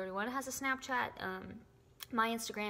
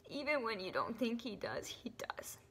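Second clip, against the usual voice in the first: emotional whisper. Real, not acted. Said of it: "I'm so sorry that I got so emotional".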